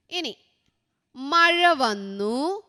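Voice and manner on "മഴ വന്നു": slow dictation. Shown as a demonstration. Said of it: "ചിലപ്പോൾ ചിത്രം തന്നിട്ട് എഴുതാനായിരിക്കും ചോദിക്കുക".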